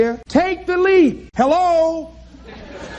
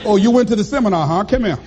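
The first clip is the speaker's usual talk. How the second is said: laughing mockery; 6 semitones lower, faster than usual. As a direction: lower voice of life chuckling, fast. Life mocking the dreamer, laughing.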